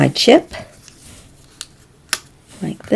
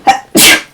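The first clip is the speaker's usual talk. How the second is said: sneezing. Real, not acted. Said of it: "excuse me, I'm gonna sneeze".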